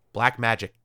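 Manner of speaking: "Black Magic" with a hard click on the last consonant; "Magic" finished on a sharp, clicky K; clicky final K. Shown as a demonstration. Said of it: "gotta make that clicky noise".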